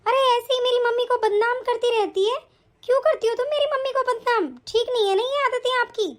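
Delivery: quick, annoyed telling-off; indignant scolding. Acted. Wife scolds sister-in-law for defaming her mother, indignant.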